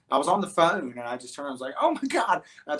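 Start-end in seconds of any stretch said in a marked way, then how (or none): 1.8-2.4 higher-pitched startled exclamation; retold alarm. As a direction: imitate your own startled "oh my God". Retelling own shock at bear.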